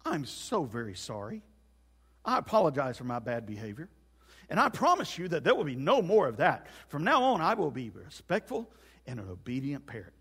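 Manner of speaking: measured, overly polite parrot apology; contrite parrot. Acted. Parrot apologizing to the woman for bad behavior, humbly contrite. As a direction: apologize formally, starting low and meek. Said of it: "she hears a parrot say".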